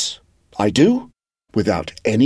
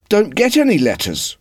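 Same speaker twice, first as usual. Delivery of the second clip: with regret; 10 semitones higher than usual. Acted. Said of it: "he said with regret".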